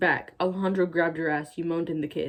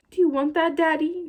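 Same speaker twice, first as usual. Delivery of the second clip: mock sultry; 10 semitones higher, 4 dB louder than usual. Reading the seductive line.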